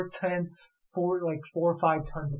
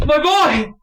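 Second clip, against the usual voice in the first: high, loud anguished cry; frantic father; 9 semitones higher, 13 dB louder than usual. Acted. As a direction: shout out for your lost son. Father cries out for missing child.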